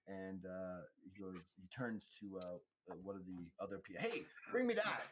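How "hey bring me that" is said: high, loud shout to an assistant; calling out orders. Acted. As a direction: bark it across the room. Medic calls out to assistant.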